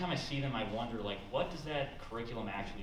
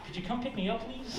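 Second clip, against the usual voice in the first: high-pitched little request; mock meek plea; 11 semitones higher than usual. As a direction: ask sweetly high for a favour. Meek plea from kidnapped texter.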